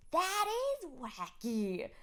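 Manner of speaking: put-on drawn-out kid verdict; imitating a child. Mother imitating her kid, slow kid verdict.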